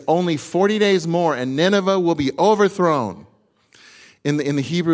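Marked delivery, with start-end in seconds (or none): 0.1-3.3 loud, high proclamation of doom; proclaiming prophet. Retold or imitated. Jonah proclaims doom to Nineveh, loud and high. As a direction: announce it to the whole city. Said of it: "He says".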